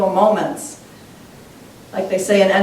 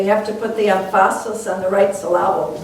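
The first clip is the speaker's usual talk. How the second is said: quoting dad through a chuckle; half-laughing as you repeat a family saying; amused retelling of an old saying. Retold or imitated. Dad's saying retold with a laugh.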